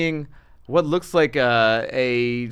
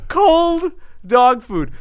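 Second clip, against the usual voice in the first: disgusted; 12 semitones higher, 6 dB louder, much slower than usual. Real, not acted. Disgusted at dog food fridge.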